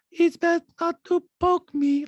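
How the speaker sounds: high, slow, oddly threatening monotone; Diana. Retold or imitated. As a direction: threaten with chilling detachment. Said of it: "oddly threatening when somebody says it in this kind of detached".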